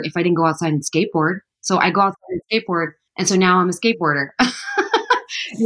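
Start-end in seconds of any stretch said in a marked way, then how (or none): 4.3-5.5 bright laugh. Real, not acted. Laughing at own joke.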